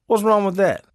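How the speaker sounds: indignant. Retold or imitated. Mock indignant retort.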